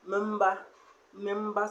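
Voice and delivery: Memba, memba, with the N carried in Memba; Memba, memba as a nari demo; nasal N sound. Shown as a demonstration. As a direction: repeat Memba, memba, showing the N sound. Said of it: "So that's the N sound".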